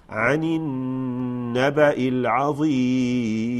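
slow melodic chant; Quran recitation. Shown as a demonstration. Teacher chanting the next verse for the class. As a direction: chant the verse with long vowels.

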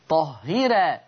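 low-pitched "طهيرا" with un-emphatic ra; thin the ra of "طهيرا", keep it long; thinned open ra. Shown as a demonstration. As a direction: end "طهيرا" on a light, fronted "raa". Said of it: "فتصير".

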